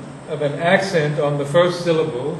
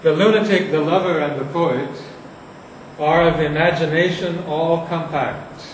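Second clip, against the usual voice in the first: dramatic reading. Shown as a demonstration. Teacher reading Shakespeare aloud to show it's dramatic and eloquent. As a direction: read it out loud with eloquence. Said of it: "if you read the line out loud".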